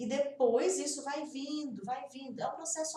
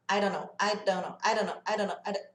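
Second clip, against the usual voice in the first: I don't know rattled off as one word; rapid connected speech; 3 semitones lower than usual. Shown as a demonstration. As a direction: run I don't know together, D barely tapped. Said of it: "Eu não sei rápido". (I don't know rápido, emendado, D leve)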